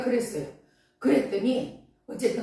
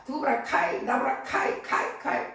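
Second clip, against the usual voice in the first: Gyeongsang dialect. Shown as a demonstration. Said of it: "방언 기도 하느냐고".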